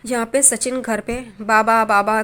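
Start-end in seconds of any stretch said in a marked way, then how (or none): 1.4-2.2 loud call for father. Retold or imitated. Son shouting for father on arriving home, loud call. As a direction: shout for father across the house. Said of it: "चिल्लाते हुए आता है".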